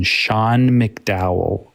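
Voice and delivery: "Sean McDowell" said very slowly, syllable by syllable; slow name. Shown as a demonstration. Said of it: "S E A N McDowell".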